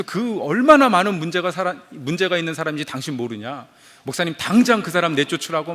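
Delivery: imitating an angry caller's demand; retold scolding. Caller demanding the pastor expel a member, retold scolding. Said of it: "막 호통을 치면서".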